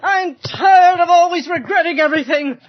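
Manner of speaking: tearful anger. Acted. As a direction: storm out near tears. Wife walks out in tears.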